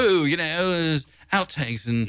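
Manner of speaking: lightly put-on British accent. Imagining the label pitching a posthumous album, in a light British accent. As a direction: slip into a mock British voice. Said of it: "keep going to the British accent".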